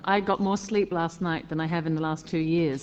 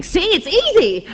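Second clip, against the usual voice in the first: mock cheerful coaxing; 12 semitones higher, 6 dB louder than usual. Retelling director with tarantula.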